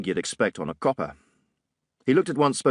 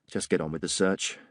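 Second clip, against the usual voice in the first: tired, a little softer; weary sigh; 3 semitones lower, 5 dB quieter than usual. Acted. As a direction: let the order out on a sigh. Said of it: "I sighed".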